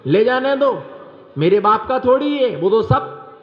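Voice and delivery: the husband's sarcastic comeback. Retold or imitated. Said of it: "आदमी क्या कहता है".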